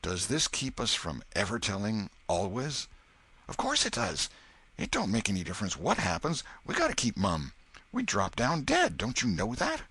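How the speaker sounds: lightly voiced frightened boy hushing his friend; boy urging secrecy, mildly scared. Boys' frightened dialogue.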